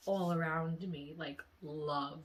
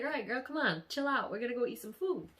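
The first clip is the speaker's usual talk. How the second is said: imitated boyfriend; 5 semitones higher, faster than usual. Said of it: "he was like".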